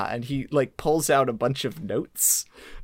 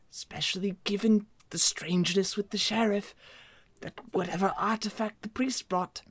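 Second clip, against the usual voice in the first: scholarly character voice; 5 semitones higher than usual. Acted. NPC reads out his notes.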